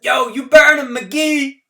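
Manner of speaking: high, loud shout with the weight on burn; lone cheer. A narrator's reading. Kid on a car roof cheering McGee, loud shout. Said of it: "a single voice separated itself".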